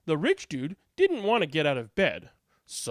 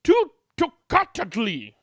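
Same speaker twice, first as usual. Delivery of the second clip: scolding mom; 5 semitones higher, 7 dB louder than usual. Acted. Mom rejects toccata.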